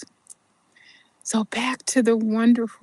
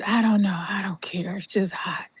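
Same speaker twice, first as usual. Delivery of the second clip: weary labouring whisper; 3 semitones lower, faster than usual. Retold or imitated. Labouring mother answers her friend in a whisper. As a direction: let it fall out of a tired body.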